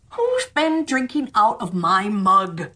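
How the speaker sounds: slow, lightly changed dwarf voice; a slow, puzzled seventh dwarf. Acted. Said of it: "And the seventh".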